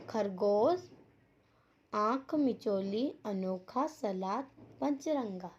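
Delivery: each word enunciated separately and clearly; careful pronunciation. Shown as a demonstration. Teacher showing pupils the correct pronunciation, careful word-by-word delivery. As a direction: model each word for learners, with pauses between. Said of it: "शुद्ध उच्चारण कीजिए".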